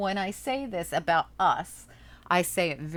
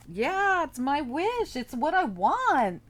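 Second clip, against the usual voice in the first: voicing a wish; 9 semitones higher, 4 dB louder, slower than usual.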